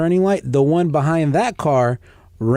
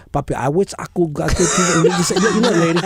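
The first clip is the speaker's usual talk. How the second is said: imitated Latina's broken English, lightly hammed up; mock a Latina struggling in accented English; 2 semitones higher than usual. Latin girlfriend trying English mid-romance, mock Latina accent. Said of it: "she wants to pull out the English".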